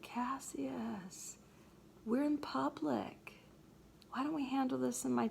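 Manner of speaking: whispered name, then soft urging; hushed Brutus. Retold or imitated. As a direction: keep it down, we're in public. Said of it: "You can shout as loudly as you want in there".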